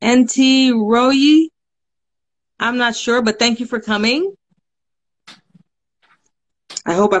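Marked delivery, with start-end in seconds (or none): 0.0-1.5 "N T Royi" sounded out slowly, unsure of the name; slow uncertain sounding-out. Real, not acted. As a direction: spell out "N T Royi" hesitantly, letter by letter. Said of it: "I'm not sure how to pronounce your name".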